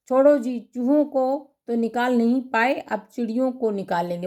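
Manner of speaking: a light, mocking dig from the wife; mild sarcasm at the husband; sarcastic jab. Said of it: "माँ ने व्यंग किया".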